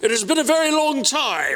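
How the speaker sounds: fake English accent, pitched very high. Greeting an old friend after years apart, the speaker switches into an English accent. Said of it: "let me do my English accent".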